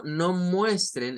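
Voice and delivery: muestren drawn out and stressed, falling; slow stress on muestren. Shown as a demonstration. Teacher stressing muestren for the class. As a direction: lean slowly on muestren. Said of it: "eso es show".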